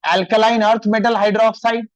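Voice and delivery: very slow, spaced-out words; unhurried classroom dictation. Shown as a demonstration. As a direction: drag it out so the class can copy it. Teacher dictating formulas slowly.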